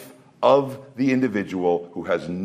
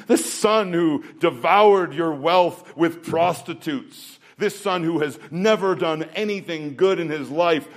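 resentful elder son; 4 semitones higher than usual. Acted. Preacher acting out the son's resentment.

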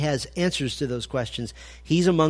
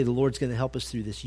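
calm reassurance; 3 semitones lower, 5 dB quieter than usual. Retold or imitated. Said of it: "You go to your wife and you say".

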